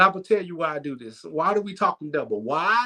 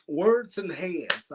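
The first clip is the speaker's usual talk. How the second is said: slow emphasis; 3 dB quieter, much slower than usual. Acted. Repeated catchphrase.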